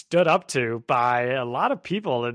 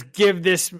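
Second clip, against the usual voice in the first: Willem Dafoe voice; 5 semitones higher, 4 dB louder than usual. Retold or imitated. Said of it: "try to do a William Dafoe voice".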